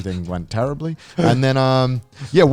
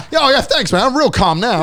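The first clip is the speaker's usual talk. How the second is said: sarcastic thanks; 11 semitones higher, 6 dB louder than usual. Retold or imitated. Sarcastic reply to instructor.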